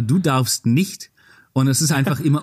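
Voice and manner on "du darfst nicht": drawn-out slow slogan. Pretend. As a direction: stretch the words like a tagline. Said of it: "Gegenmarke dazu zu machen, und zwar".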